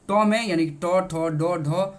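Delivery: each letter टॉ, ठॉ, डॉ, ढॉ sounded out separately from the roof of the mouth; teacher sounding out टॉ ठॉ डॉ ढॉ; reciting letters. Shown as a demonstration. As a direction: spell out the retroflex row slowly for the class. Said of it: "टॉ वर्ग का उच्चारण".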